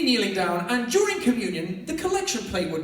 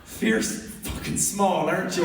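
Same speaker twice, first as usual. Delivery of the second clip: slow, slurring imitation of a drunk; lightly voiced drunk teasing a small kid; drunk heckler; slower than usual. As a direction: drawl it like a hammered pub regular. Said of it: "They'd come up hammered going".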